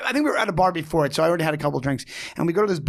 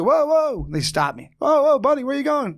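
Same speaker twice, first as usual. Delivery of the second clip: higher, louder mock challenge from a bouncer type; tough guy stopping him; 10 semitones higher, 3 dB louder than usual. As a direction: block his path with a loud mock "whoa". Stranger blocking his way.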